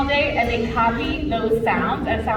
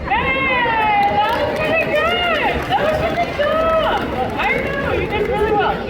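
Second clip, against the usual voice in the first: high, excited praise for a pet; high-pitched praise; 12 semitones higher than usual. Real, not acted. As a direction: gush over the bird, pitched up. Praising the parrot's song.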